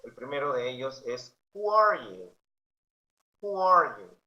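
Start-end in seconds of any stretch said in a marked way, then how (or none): 1.5-2.3 Who are you higher and louder; loud model. Shown as a demonstration. Teacher reading the question to students, loud. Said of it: "model question". 3.4-4.2 Who are you higher and louder; loud model. Shown as a demonstration. Teacher repeating the question, loud.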